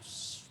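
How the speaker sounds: hissed shh for poured product; imitated splash. Helper throwing product on the floor, hissed splash. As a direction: mimic liquid sloshing out with a shh.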